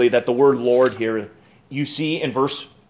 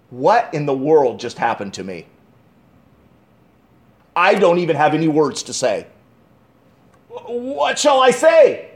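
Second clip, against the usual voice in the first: amazed, speechless. Acted. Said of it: "like this".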